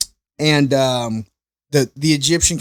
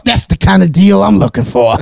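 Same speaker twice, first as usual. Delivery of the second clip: higher and louder, laughing as he quotes her; laughing through the quote; 5 semitones higher, 8 dB louder than usual. Retold or imitated. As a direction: crack up while voicing the pleased customer. Lady pleased, laughing retelling.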